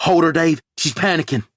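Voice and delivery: loud, high firm call; urgent medic command; urgent order. A narrator's reading. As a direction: tell him fast to hold on. Linda urgent instruction.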